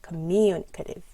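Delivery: Communicative with MU punched; coMUnicative, strong second syllable; primary stress. Shown as a demonstration. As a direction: hit MU in Communicative. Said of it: "always a primary stress".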